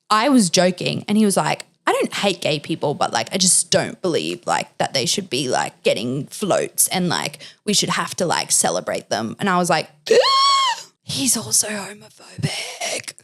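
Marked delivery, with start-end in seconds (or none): 1.9-9.4 quoting him lower and duller; lightly voiced, lower dismissive guy; a hint of a smug date; mock date voice. Retelling her date's views. 10.1-10.8 sharp high gasp of mock horror; loud theatrical gasp; shocked gasp. Shocked at his homophobia. 11.0-13.1 hushed, scandalised inner aside; horrified whisper. Retold or imitated. Horrified aside in her head.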